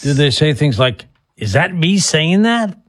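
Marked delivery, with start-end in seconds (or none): 1.4-2.8 slower, higher mock disbelief; lightly acted surprise, pitch lifted; imitating surprised client. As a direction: voice a client's drawn-out, puzzled question. Host voices a surprised client.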